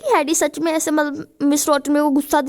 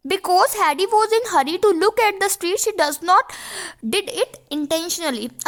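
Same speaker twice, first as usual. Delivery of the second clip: slow, careful reading of the text line; slow dictation read; 3 semitones higher, much slower than usual. Shown as a demonstration. Teacher to students, reading the passage slowly. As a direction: read it out slowly for the class to copy.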